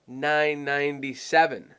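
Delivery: "nine ninety-seven" short in words, smoothly stretched; small-sounding price. Shown as a demonstration. Seller offering a happy customer the discount, "nine ninety-seven" slow and simple. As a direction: say "nine ninety-seven" slowly, with no thousands or hundreds. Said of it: "it sounds way smaller".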